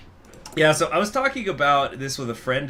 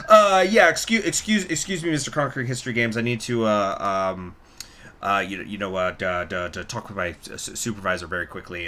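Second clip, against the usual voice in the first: higher stammering fake agent, sinking lower by the end; higher-pitched scammer; 3 semitones lower than usual. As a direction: voice jumps up then stutters down. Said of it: "his voice would get higher pitched".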